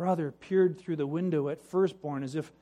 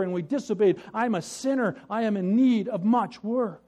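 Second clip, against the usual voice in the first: indignant penitent; 2 semitones higher, 4 dB louder than usual. Acted. Rock stacker's indignant confession.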